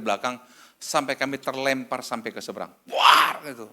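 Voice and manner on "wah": sudden loud impact noise; loud crash imitation. Telling how the car was hit from behind, booming crash noise. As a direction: burst out the bang of a collision.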